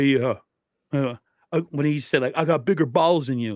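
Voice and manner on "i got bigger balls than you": put-on voice with a mouthful of cud, higher pitch. Doing an imitation someone asked for, with a mouthful of cud: Javon Kinlaw impression, mouth full. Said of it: "they want me to do an imitation of Javon Kinlaw".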